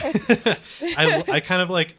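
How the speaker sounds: real laugh breaking into the words. Real, not acted. Laughing while agreeing with the guest about voices. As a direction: laugh through the start of the line.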